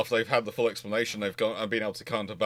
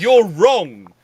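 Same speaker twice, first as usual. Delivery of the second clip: louder, blunt mock accusation; imitating a commenter, loudly dismissive; mocking a know-it-all; 5 semitones higher, 12 dB louder than usual. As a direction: bluntly imitate a smug critic. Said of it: "people come in and want to go".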